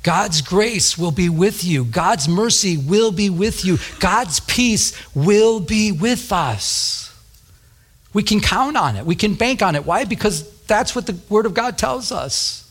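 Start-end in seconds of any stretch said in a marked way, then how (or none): 0.0-7.1 slow, rising assurance, each line higher; confident declaration. Real, not acted. Pastor assuring the congregation, slow and rising. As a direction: build conviction line by line. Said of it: "I want to say it with confidence".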